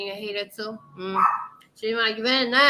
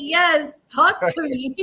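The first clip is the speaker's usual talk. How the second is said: raised, louder acted-out swoon; swooning delight; 3 semitones higher, 5 dB louder, slower than usual. Woman acts out hearing her boyfriend's accent, swooning. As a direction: act out being smitten by his voice.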